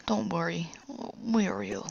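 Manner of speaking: hurt father calling out faintly; weak, in pain. Retold or imitated. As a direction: speak weakly through the pain. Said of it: "weakly, uh, in pain".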